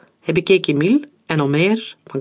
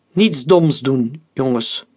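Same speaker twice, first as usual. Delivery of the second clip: thundering; slower than usual. Acted. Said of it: "donderde majoor-generaal Rennerkamp".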